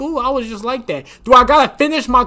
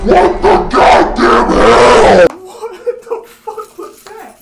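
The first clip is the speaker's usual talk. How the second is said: stunned disbelief; 8 semitones higher, 7 dB louder, much slower than usual. Real, not acted. Shock fading into laughter.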